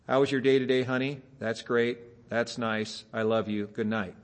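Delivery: low, flat-dull rote lines, mildly bored; bored husband. Retold or imitated. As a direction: mumble it like a tired husband on autopilot. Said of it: "the exact same boring old lines".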